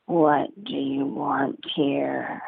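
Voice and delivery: low, slow gravelly growl; a big stern papa bear, speaking slowly. Acted. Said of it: "The gravelly voice of Papa Bear spoke".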